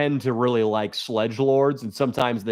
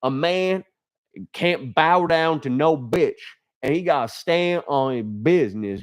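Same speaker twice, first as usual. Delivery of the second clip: imitating Wideneck; 3 semitones higher than usual. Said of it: "he'd be like".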